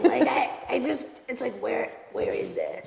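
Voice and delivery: giggling, embarrassed; laughing. Real, not acted. Giggling about social anxiety.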